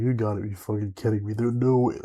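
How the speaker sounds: near-shout of denial; loud disbelief. Retold or imitated. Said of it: "I was like".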